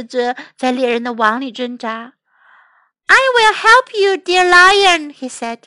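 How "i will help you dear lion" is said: high mouse voice, earnest; eager little mouse. Acted. Mouse offers the trapped lion help, eager.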